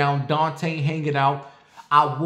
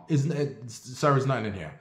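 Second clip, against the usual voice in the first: calm; 2 semitones lower, 4 dB quieter than usual. Retold or imitated. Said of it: "I was very cool and calm".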